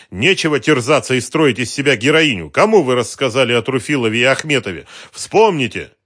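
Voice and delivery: loud, high, demanding; angry scolding. A narrator's reading. Detective scolding the woman to remember, loud angry demand.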